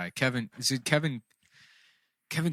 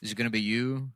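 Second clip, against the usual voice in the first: noir detective. Pretend. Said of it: "It's just the voice".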